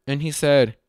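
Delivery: normal talking voice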